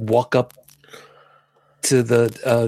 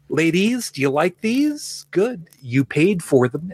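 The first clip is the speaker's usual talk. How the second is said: slow, higher mock showman voice; Liberace; 5 semitones higher, slower than usual. Fan retells star showing off rings to the audience: mock showman. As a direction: play the preening stage star, drawn out. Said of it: "It's like".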